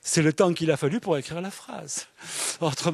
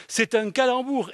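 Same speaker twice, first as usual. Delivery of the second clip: "C'est un calembour" repeated higher, with a delighted fall; 8 semitones higher than usual. Shown as a demonstration. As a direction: hammer the pun home. (répéter « C'est un calembour » plus haut, ravi)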